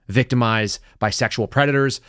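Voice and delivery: put-on Mexican accent while reading. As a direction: read it with a light Mexican accent. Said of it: "I don't know why I'm doing this Mexican accent".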